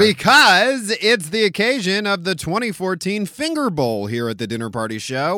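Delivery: booming game-day announcer; sportscaster voice. Pretend. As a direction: call it like a sportscaster. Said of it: "the speaker's talking like a sportscaster".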